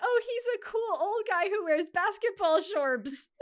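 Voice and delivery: very high, loud mocking voice; mock the fans in a squeaky high voice. Mocking praise of Adam Sandler.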